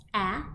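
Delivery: short a as in apple, said clearly again; short a sound. Shown as a demonstration. Teacher repeating the short a for kids to copy. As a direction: say it slowly with the children. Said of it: "Can you do that with me?".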